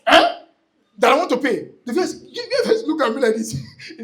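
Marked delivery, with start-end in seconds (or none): 0.0-1.7 mock astonished eh; surprised eh. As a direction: blurt it out in surprise. Retelling the cashier's reaction.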